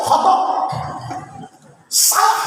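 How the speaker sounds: mock yell from a cocky pupil; retold shout. Student shouts the answer is wrong, mock yell. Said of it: "Dia teriak".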